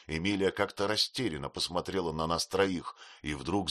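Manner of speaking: usual speaking voice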